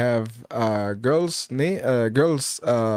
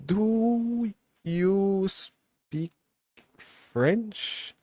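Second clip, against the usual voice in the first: drawn-out, lifting question from a foreign visitor; slow mock French customer; 6 semitones higher, 3 dB quieter, much slower than usual. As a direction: stretch it slowly like a struggling tourist. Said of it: "they tell me".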